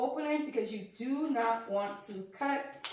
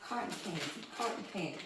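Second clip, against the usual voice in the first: soft musing; 4 semitones lower, 8 dB quieter, much faster than usual. Real, not acted. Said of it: "That's what I'm thinking when I see".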